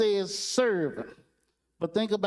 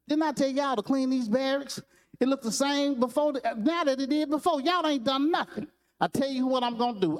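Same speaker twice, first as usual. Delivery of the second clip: fussing drill sergeant; 6 semitones higher than usual. Retold or imitated. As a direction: chew out the recruits like a mock drill sergeant. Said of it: "he started fussing at him".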